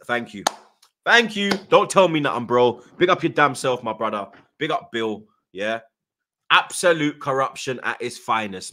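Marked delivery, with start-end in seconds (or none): 1.0-4.3 emphatic, louder outburst of thanks; loud vindication. Real, not acted. Fan thanking viewer who backed him up, loud vindication. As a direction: burst out, feeling proved right.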